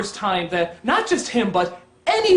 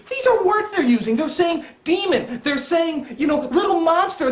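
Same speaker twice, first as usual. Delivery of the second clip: higher-pitched indignant rant; exasperated, pitched up; appalled disbelief; 5 semitones higher than usual. Real, not acted. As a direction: incredulously list the offending words. Appalled at the words used.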